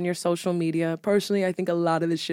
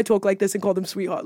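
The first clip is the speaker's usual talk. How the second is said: lightly put-on New York voice; quick, playful New York accent. Shown as a demonstration. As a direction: slip into New York talk. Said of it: "the New York voice".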